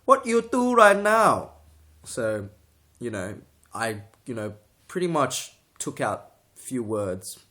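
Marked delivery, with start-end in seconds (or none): 0.1-1.5 high, loud, drawn-out Asian accent parody; stereotyped Asian accent, slow and shouted; mock Asian accent. Shown as a demonstration. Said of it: "say that in an Asian accent".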